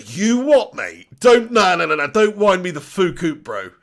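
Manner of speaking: loud, wound-up protest at the screen; real outburst at a substitution; outraged disbelief. Real, not acted. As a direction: refuse to believe the news, loudly. Disbelief at Danny Ings coming on.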